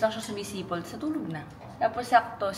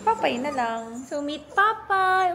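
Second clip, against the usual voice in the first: excited intro; 5 semitones higher, 4 dB louder, slower than usual. Real, not acted. Introducing new puppy to camera.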